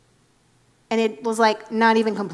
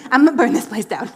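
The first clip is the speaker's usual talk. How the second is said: louder movie-quote delivery of burning it down; Office Space quote; 8 dB louder than usual. Retold or imitated. Quoting Office Space about the temple, louder movie-line delivery. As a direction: echo the film line with deadpan relish. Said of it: "If you've watched Office Space".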